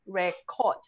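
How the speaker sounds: "record" split, weight on the final syllable; second-syllable stress. Shown as a demonstration. Teacher repeating the verb, "record" stressed at the end. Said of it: "you stress on cord".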